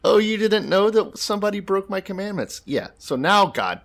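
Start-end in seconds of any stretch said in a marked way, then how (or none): 0.0-2.6 very high, loud giggling cackle; tee-hee like a prankster who enjoys it; giggling God. Pretend. God giggling at Joshua in a very high, shrill prankster voice. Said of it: "And God's like".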